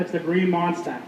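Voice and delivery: Boston accent, Monster as "Monstah"; Boston accent, drop the r in Monster. Shown as a demonstration. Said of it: "want to throw in your Boston accent".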